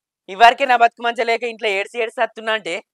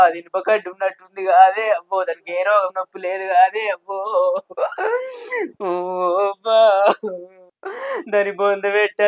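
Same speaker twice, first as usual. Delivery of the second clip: wailing lament. Acted. A jilted man wails alone at home, weeping lament. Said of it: "ఇంట కూర్చొని ఎడుతున్నావు".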